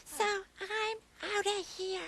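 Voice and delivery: hushed and sulky, low; a small grumpy whisper; quiet whisper. Acted. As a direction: keep it down, grumbling softly. Forced whisper, leaving annoyed.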